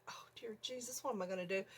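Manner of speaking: hushed, softly fretting to oneself; quiet mock-panicked plea, breath held back; retold dismay. Alone with the dead mouse, quietly dismayed.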